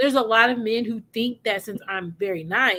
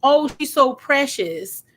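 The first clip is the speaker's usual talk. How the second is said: slow, sugary, louder fake sweetness; sarcastic Southern sweetness; 5 dB louder, slower than usual. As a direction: drip mock Southern charm. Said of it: "sarcastic and slick".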